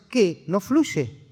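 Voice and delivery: mock bewilderment, pitch jumping up; disconcerted master. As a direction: blurt it like a sage suddenly unsure. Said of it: "el maestro todo desconcertado".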